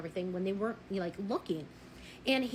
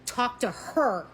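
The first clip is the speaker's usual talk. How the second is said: slow firm warning; 3 semitones lower, slower than usual. Retold or imitated. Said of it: "I said".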